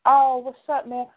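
a hint of a proud boyfriend; boyfriend greeting homie. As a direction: toss it off to his friend. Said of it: "first thing that come out his mouth is like".

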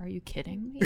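laughing through a mock are you kidding me; half-laughing quoted disbelief. Gamer recalling first sight of Zarya's hair, laughing. Quoting own reaction.

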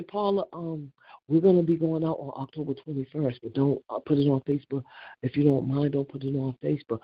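calm, even, courteous asking; polite request. Shown as a demonstration. Showing her friends the polite way to ask, calm and even. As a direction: show how it should have been said. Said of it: "you could say".

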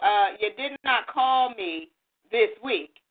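slow, low, emphatic reproach; mock scolding. Daughter on the phone reproaching her mom, mock scolding. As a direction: lay down each word slowly and low.

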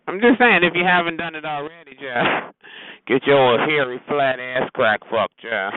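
loud, punchy taunt aimed at Jeff; loud call-out. Real, not acted. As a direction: roast him loudly, slowing on the insult. Calling Jeff out on air.

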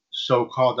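"so-called" slowly set apart with emphasis; deliberate weight on "so-called"; stress on so-called. Real, not acted. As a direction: stretch out "so-called" to make it count. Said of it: "I emphasize the word so-called".

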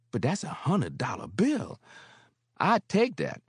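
Mary scorning the bank's questions; snorting. Acted. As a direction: scoff at the white folks. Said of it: "she snorted".

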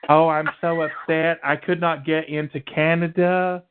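hammed-up self-pity in a put-on accent; mock Chelsea Manning. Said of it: "When did you get an accent?".

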